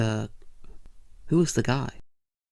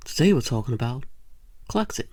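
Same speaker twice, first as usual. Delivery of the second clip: hosty announcement; faster than usual. Acted. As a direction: sell the topic like a game show host. Talk show host opener.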